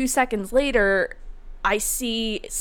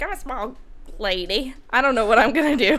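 mock panicked; 3 semitones higher than usual. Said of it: "fucking terrified".

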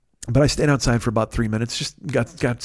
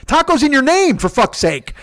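high, loud exasperated rant; losing his mind; 11 semitones higher, 5 dB louder, slower than usual. Retold or imitated. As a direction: blow up in furious disbelief. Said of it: "I wanted to lose my mind and say that shit".

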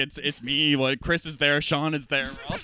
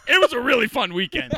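laughing; 9 semitones higher, 3 dB louder than usual. Real, not acted. Laughing at the memory.

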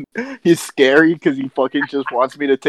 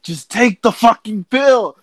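higher-pitched impatient dad retold; frustrated dad; 7 semitones higher than usual. Dad ordering his sick kid to take pills, mock frustration. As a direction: imitate a parent losing patience. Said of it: "he got so frustrated".

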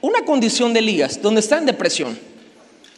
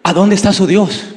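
mild taunting jeer; 3 semitones lower than usual. Retold or imitated. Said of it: "dice que Elías hacía así".

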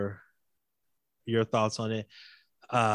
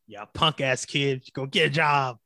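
put-on old man voice; 3 semitones higher, 4 dB louder than usual. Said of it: "let me get my old man rocking chair".

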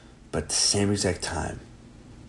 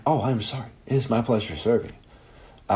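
mock polite staff; 5 semitones higher, 4 dB louder than usual. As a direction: ham up the forced politeness. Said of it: "Even if you're like".

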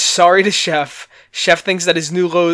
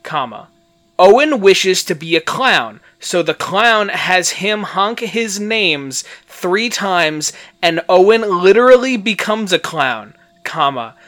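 deliberate read-out with punctuation spoken aloud; literal as-written reading; 2 semitones higher, 4 dB louder than usual. Shown as a demonstration. Host reading out a botched clown summary, mock-literal delivery. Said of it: "the way I am reading it is the way it is written".

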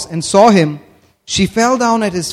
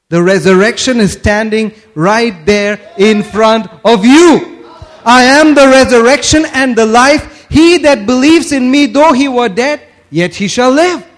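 loud, raised preaching declaration; forceful proclamation; 3 semitones higher, 4 dB louder than usual. Retold or imitated. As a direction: drive each phrase home to the congregation. Preacher proclaiming Jesus' words.

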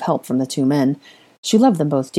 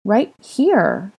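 put-on higher child's answer; small child; 5 semitones higher than usual. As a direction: answer simply like a little boy. Toddler answers, pointing to floor.

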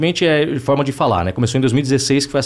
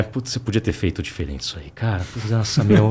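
low, soft grumble to oneself; muted self-reproach; 3 semitones lower, 6 dB quieter than usual. Acted. Actor watching his old work, quietly self-critical. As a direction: keep the regret under your breath, lightly acted.

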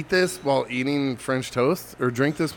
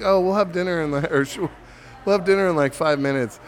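put-on girlfriend's mom; 4 semitones higher than usual. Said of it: "She's like".

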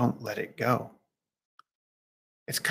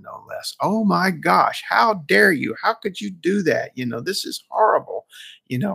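indignant tirade; 4 semitones higher than usual. Retold or imitated. Young monk scolding the old monk for breaking vows, indignant. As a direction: let both barrels fly in a mock scolding. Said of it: "let him have it, both barrels at once".

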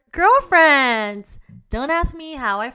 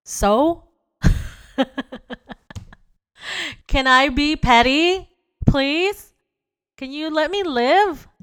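louder, higher mock protest; petty pleading; 6 semitones higher, 4 dB louder than usual. To boyfriend, defending herself, loud mock whine. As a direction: plead to be allowed pettiness. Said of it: "'cause I was like".

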